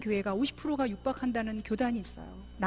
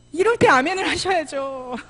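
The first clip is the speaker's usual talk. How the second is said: loud, raised-pitch chiding; loud prodding; 5 semitones higher, 10 dB louder than usual. Real, not acted. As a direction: goad a silent congregation into responding. Scolds congregation for no amen.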